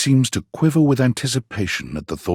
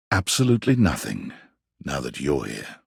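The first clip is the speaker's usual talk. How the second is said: gentle and reassuring, trailing much softer at the end; soft, smiling reply; 8 semitones lower, 3 dB quieter than usual. A narrator's reading. Abel reassuring you after your night together, softly. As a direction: tell them nothing's wrong with a soft smile. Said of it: "he only gives you a soft smile".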